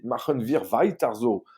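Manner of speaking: put-on slow German phrase in a French accent. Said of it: "désolé pour mon accent allemand". (allemand avec l'accent français)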